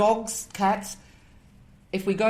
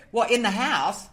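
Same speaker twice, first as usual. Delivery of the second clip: higher, louder amused disbelief; amused surprise; 5 semitones higher, 3 dB louder than usual. Retold or imitated. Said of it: "That was my expre".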